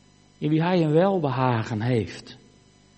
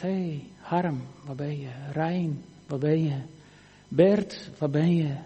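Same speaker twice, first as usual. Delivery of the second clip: calling by name; 4 semitones lower, 5 dB quieter than usual. Acted. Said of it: "God roept je bij je naam".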